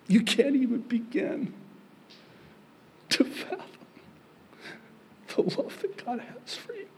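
high, thin voice choked up by love; moved almost to tears; overcome with emotion. Real, not acted. Overcome telling of God's love.

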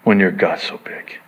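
breathy whispered question; hushed. Acted. Pastor repeating Jesus's question to congregation, whispered. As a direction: drop to a whisper, intimate. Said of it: "hushed repeat of Jesus line".

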